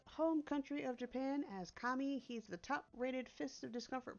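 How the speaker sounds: phone fairy proudly presenting a guest; helpful fairy assistant. Acted.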